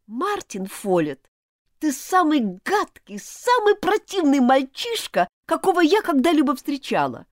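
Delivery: high, loud outraged accusation; angry and contemptuous. Acted. Elizabeth accuses Martin of theft, high and furious. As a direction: hurl it at him, betrayed and furious. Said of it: "сама ещё больше разозлилась".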